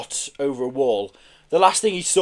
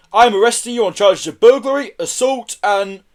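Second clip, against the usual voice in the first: lightly voiced officer, higher and official; officer in charge; 7 semitones higher, 7 dB louder than usual. A narrator's reading. Officer arresting Joseph Kelly, officious. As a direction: read out charges, cut short. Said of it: "said the officer in charge".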